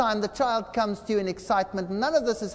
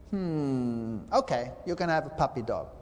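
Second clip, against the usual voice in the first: reluctant parent; 7 semitones lower, 4 dB quieter than usual. Acted. Parent answers child's request.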